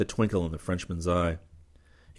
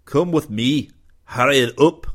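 louder urgent call; 7 semitones higher, 9 dB louder than usual. A narrator's reading. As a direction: call them along in a hurry. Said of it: "McFife called".

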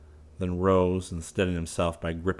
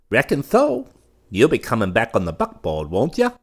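high, eager nervous voice; a nervous fop pleading; fawning young man; 5 semitones higher, 7 dB louder than usual. A narrator's reading.

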